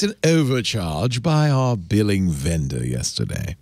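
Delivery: lightly held fake British accent; cod British accent. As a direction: keep up the put-on British reading. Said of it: "are you doing a cod British accent".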